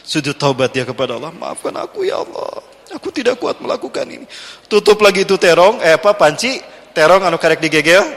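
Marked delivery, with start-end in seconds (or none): 1.3-4.2 whispered prayer. Acted. Praying quote in story.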